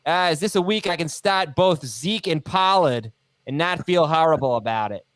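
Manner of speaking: put-on Boston accent. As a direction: read it like someone from Boston. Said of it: "are you gonna do accents".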